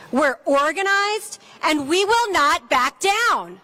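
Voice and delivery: rally speech. Acted. Speaker at a gun-safety rally.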